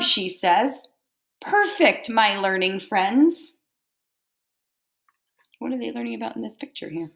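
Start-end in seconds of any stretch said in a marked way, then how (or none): 1.4-3.6 praising teacher. Acted. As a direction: praise the class with delight. Teacher praising pupils in story.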